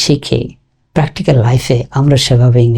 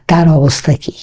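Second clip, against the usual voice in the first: whisper; 3 semitones higher than usual. Shown as a demonstration. Teacher quotes Bangla phrase.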